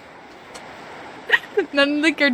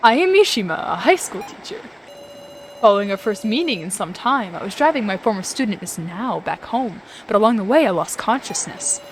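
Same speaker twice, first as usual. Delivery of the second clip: Mishima; 3 semitones lower, 4 dB quieter than usual. Acted. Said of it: "I have to voice myself as Mishima".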